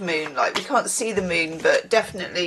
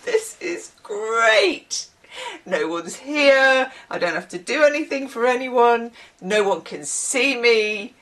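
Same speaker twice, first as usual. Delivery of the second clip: mock contented self; 3 semitones higher than usual. Mimics her content alone self.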